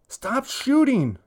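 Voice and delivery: high, slow, loud yell. Acted. Boy yelling at online friends through headset, high and slow. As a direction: drag out the yell at his teammates. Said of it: "he yells into the mouthpiece".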